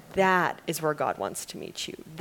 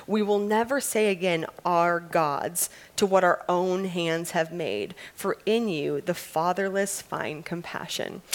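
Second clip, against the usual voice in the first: scripture reading. Acted. Reads scripture passage aloud.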